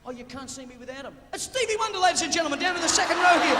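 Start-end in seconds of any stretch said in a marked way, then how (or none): 1.3-3.5 loud, high mock introduction; announcer voice. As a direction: announce her like a showman. Mock announcing binocular lady.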